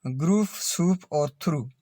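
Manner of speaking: ग्रूफ, सूप, थ्रू with long "oo". Shown as a demonstration. Teacher giving examples of the big U, ग्रूफ, सूप, थ्रू with long "oo". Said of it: "बड़ा उ है ये".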